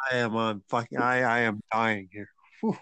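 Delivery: panting from hot wings, mouth burning; mouth on fire. Real, not acted. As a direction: talk through a burning mouth from spicy wings. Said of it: "Ooh, my face is on fire".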